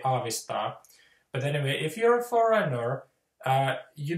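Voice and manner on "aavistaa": Finnish aavistaa said flat and quick; "aavistaa." spoken as a native Finn would; Finnish word. Shown as a demonstration. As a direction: say "aavistaa." the Finnish way, each syllable even. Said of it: "So we say".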